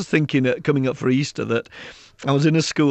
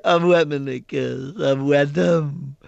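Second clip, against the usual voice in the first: put-on a small child's sorry confession; little girl; slower than usual. Little girl voiced in story.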